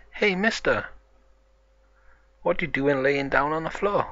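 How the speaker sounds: high-pitched questioning call; story character calling to someone on the floor; puzzled hail. Acted. Peppa hails man lying on floor.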